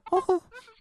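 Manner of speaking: high, loud cartoonish giggle; high-pitched laugh. Shown as a demonstration. Mimicking the character's high-pitched voice, high loud laugh. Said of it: "the high-pitched voice and the".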